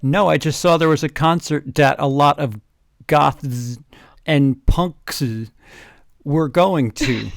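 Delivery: loud, slowing hammed-up answer; mock loud Dumbledore. Dumbledore answering the goth girl, loud mock voice. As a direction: boom it out, dragging the end.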